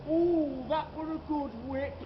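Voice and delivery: mock taunt. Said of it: "the young lad says again".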